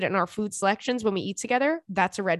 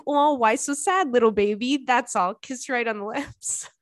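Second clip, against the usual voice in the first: mock baby cooing; 3 semitones higher than usual. Cooing to a whimpering sleeper.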